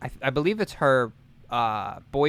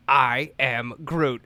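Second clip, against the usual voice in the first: slow, deliberate quote; slow Groot line; much slower than usual. Retold or imitated. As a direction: drag out the catchphrase.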